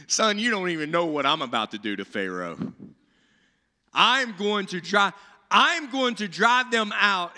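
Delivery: chuckling, fond, then building confident; lightly voiced God laughing at Moses; amused God. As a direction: tease Moses fondly, then promise boldly. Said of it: "he's like".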